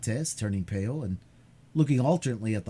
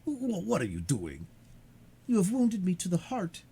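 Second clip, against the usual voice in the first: put-on frail old man; 8 semitones higher than usual.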